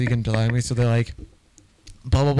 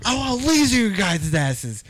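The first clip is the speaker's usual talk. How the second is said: much higher, hammed-up villain snarl; menacing superhero; 10 semitones higher than usual. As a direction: play the hero turning cruel. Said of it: "and he's like".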